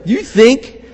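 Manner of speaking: a hint of mocking incredulity; incredulous. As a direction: scoff at the idea. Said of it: "He's kind of incredulous".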